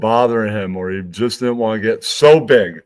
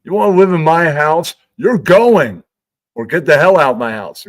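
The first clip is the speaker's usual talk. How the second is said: louder, higher parent ultimatum; mock angry parent; 5 semitones higher, 6 dB louder than usual. Parent yells at the kid to shape up or leave. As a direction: throw them out of the house. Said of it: "they go".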